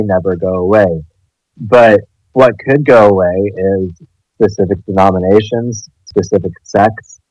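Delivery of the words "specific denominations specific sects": talking around a retainer in the mouth; words slightly blurred by a retainer; wearing a retainer. Real, not acted. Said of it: "sorry, I have a retainer in my mouth".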